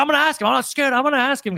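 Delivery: high, panicked, freaking-out protest.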